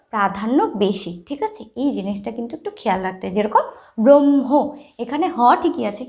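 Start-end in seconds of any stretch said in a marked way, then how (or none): 4.0-4.5 ব্রহ্ম slowly, long m, light h; ব্রহ্ম with dominant m. Shown as a demonstration. Teacher recapping for pupils, ব্রহ্ম as brom-ho with strong m. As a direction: draw out the m in ব্রহ্ম. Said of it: "হয়ের থেকে ময়ের প্রাধান্য বেশি".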